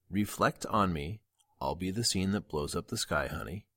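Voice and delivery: same lyric, hurried through; quick. Shown as a demonstration. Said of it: "one more time, real quick".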